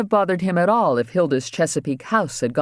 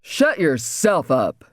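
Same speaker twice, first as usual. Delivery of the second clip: snarled; slower than usual. Acted. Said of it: "snarled back".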